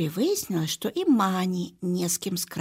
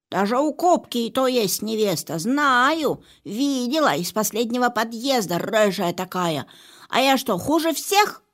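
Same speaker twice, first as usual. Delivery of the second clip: louder, offended whine; jealous cat; 3 semitones higher, 5 dB louder than usual. Acted. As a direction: complain like a jealous diva.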